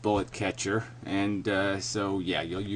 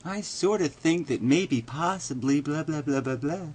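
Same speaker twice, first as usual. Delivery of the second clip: mock-meek, higher-pitched hedging; 4 semitones higher, 3 dB quieter than usual. Telling a doubtful arguer how to talk, meek. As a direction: play a timid arguer trailing into blah-blahs. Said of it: "just do it really meekly".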